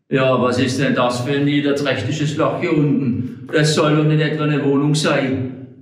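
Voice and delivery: Hobble Frank sniffing at the cellar, let down and huffy; disappointed grumbling. Acted. Hobble Frank disdains the underground lodging, huffy and let down. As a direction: grumble it with offended pride. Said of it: "sagte enttäuscht".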